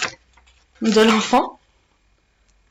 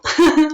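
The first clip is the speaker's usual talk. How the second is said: short laugh; 6 semitones higher, 4 dB louder than usual. Real, not acted. Laughing at her own greeting.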